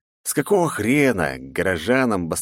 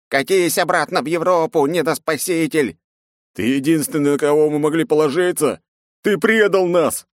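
furious crowd; 10 semitones higher, 4 dB louder than usual. A narrator's reading. Angry crowd yelling at knight.

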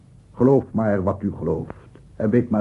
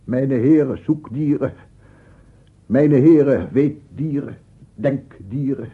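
grand address; 4 semitones higher, 5 dB louder than usual. Acted.

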